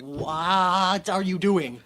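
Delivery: very slow bewildered question; baffled. Retold or imitated. At the cutlass used as a bat, slow baffled question. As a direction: drag it out in disbelief. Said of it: "I was just like".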